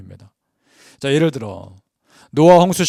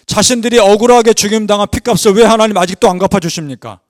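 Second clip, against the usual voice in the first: louder, higher pleading outcry; loud cry; 5 semitones higher, 5 dB louder than usual. Retold or imitated. Martyrs protest to God over unavenged blood, crying out loudly. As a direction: call out the protest with force. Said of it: "큰 소리로 외칩니다".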